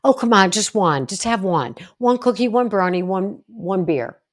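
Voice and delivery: pushy friend. Retold or imitated. A pushy friend urging a drink, loud and wheedling. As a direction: coax them like a pushy buddy at a party.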